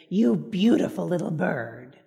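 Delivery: slow, low and tender to a little bird; mother praising the pet blue jay, slow and tender; sweet to a bird. Retold or imitated. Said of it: "she said to the little blue jay".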